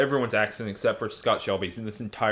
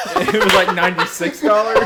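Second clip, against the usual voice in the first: laughing through the words; giggling while speaking; 7 semitones higher, 10 dB louder than usual. Real, not acted. Laughing while telling price.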